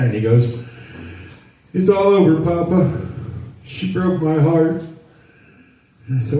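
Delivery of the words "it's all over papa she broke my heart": put-on heartbroken little boy. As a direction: play a three-year-old whose heart is broken. Grandson voiced, ready to cry.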